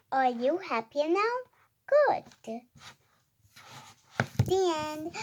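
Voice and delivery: expressive read-aloud with lifted exclamations; animated story reading. Acted. Reader voicing the one feeding cat and dog, animated read-aloud. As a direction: read out the ending with a bouncing pitch.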